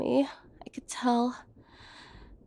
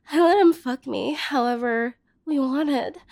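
ordinary talk, nothing marked

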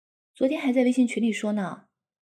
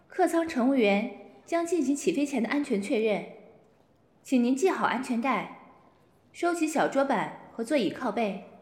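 cabin announcement. Acted. In-flight safety announcement.

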